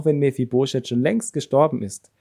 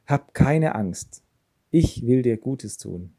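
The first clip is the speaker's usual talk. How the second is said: calm a frightened man slowly; gentle reassurance; slower than usual. Acted. King David reassuring the frightened Mephibosheth, gently slow.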